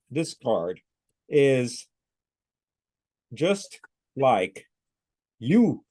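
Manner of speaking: slow, word-by-word robotic reading. Retold or imitated. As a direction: read each word separately, like a machine. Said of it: "like a robot".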